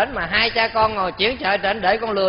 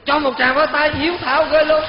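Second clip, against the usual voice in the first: much higher and louder, rousing cheer; excited call for applause; 7 semitones higher, 3 dB louder than usual. Acted. Monk urging audience to applaud the son, excited. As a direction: whip the crowd into clapping.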